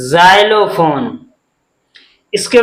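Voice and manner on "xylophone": slow model word. Shown as a demonstration. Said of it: "क्या है?".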